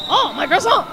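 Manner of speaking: high, loud wail of loss; hammed-up outcry over a lost pastry; mock dismay. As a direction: lament it like a small tragedy.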